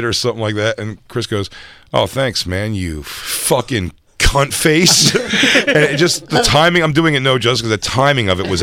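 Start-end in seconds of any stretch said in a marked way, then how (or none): 1.9-5.1 easy thanks, then "fucking cunt face" dragged out late; slow down on "fucking cunt face" as it sinks in; delayed realization. Retold or imitated. Chris realizes mid-thanks it was mean, delayed reaction on "cunt face". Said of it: "like, a delayed".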